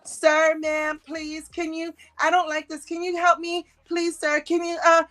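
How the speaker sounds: high pleading mock-frightened voice; mock scared woman. Mocking the coward pleading to be let in, high and scared. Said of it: "that's what I be screaming".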